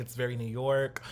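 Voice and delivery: light fake New York accent; a hint of a New York accent. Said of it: "my little fake New York accent".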